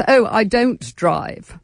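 slow, haughty, nose in the air; snooty voice. Retold or imitated. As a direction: say it like a snob, drawn out. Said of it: "in quite a snooty voice".

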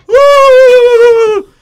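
loud, high whooping yell; mock whoop. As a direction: whoop it out like a wild drunk. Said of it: "You run out of the bedroom like".

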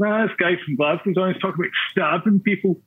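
alarmed listener. Retold or imitated. A podcast listener voiced in mock alarm. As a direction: play a shocked listener who's hearing this for the first time. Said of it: "should probably just say to your listeners".

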